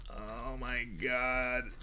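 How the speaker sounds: breathy hushed oh my God. Real, not acted. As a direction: breathe it out, almost silent. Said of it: "You hear that?".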